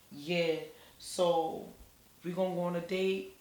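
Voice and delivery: soft, hesitant, mumbling it out like a shy guy; mock-shy guy asking her out; shy mumble. Shy guy nervously asking her on a date, quietly mumbled. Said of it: "he was so shy too".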